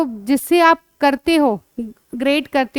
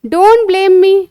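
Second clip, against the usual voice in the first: slow, louder English protest; slow, emphatic model; 4 semitones higher, 5 dB louder, much slower than usual. Shown as a demonstration. Teacher acting out a child's protest, slowly. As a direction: draw out each word for the child to copy. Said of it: "तो आप क्या बोलोगे?".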